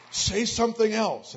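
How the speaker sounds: excited family urging the healed man. Retold or imitated.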